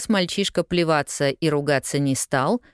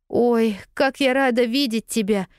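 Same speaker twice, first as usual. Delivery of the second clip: put-on higher, relieved girlish cry of joy; glad exclamation; 8 semitones higher than usual. A narrator's reading. Lost girl to newsboy, relieved joyful exclaim. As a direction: greet him like a rescuer. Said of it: "воскликнула Полианна".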